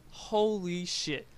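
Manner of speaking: a slow, drawn-out holy shit; amazed. Real, not acted. Telling viewers about the packed drive-through, slow amazed drawl. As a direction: stretch out Holy as the crowd sinks in. Amazed at the Chick-fil-A line.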